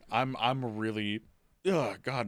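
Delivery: talking through hiccups; hiccuping. Real, not acted. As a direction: hiccups breaking the words. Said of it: "no, I'm just hiccuping".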